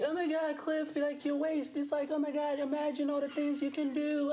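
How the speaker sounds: very high-pitched swooning fan voice; mock gushing fan. Comedian mimicking ladies who message him, high mock gushing. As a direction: squeal it like a smitten admirer, hammed-up. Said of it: "That's what they do".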